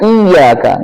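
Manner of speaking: "iyyaka" with the y firmly doubled, iy-yaka; correct tasydid. Shown as a demonstration. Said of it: "Jadi harusnya".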